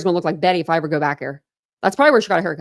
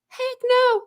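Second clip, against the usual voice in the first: high, emphatic no way; emphatic refusal. Real, not acted. She rejects the people saying let her speak, high and emphatic. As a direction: shut the idea down hard.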